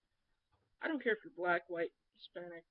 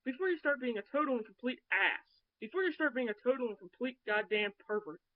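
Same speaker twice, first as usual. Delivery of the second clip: louder, higher heated telling-off; heated retort; 4 semitones higher, 6 dB louder than usual. Retold or imitated. Woman reading her reply to a creep, heated. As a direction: read it out like you're chewing him out.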